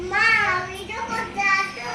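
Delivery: high-pitched call to mother. Real, not acted. Calls mother to the meal. (মাকে ডাকার সুরে, চড়া গলায়)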